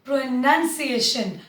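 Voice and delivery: pronunciation said slowly as "pro-nun-ciation"; teacher models pronunciation slowly with a short "nun"; slow model word. Shown as a demonstration. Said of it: "Work on your".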